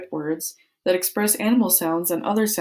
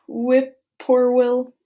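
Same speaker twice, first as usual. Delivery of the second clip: slow savoring; 5 semitones higher, 4 dB louder, much slower than usual. Shown as a demonstration. Savoring the bird name.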